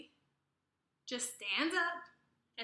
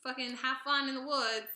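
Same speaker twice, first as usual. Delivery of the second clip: breezy, a bit louder, fake politeness; mock casual goodbye; 3 semitones higher, 5 dB louder than usual. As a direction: pretend a cheery farewell. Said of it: "Be like".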